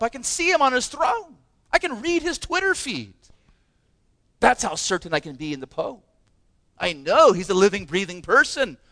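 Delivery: a hint of a sceptic, pitch lifting on the Pope; mock doubter. Preacher voicing sceptics who trust the Pope, lightly mocking. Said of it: "and they say".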